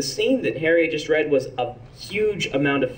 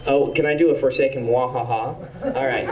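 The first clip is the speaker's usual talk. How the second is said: ordinary talk, nothing marked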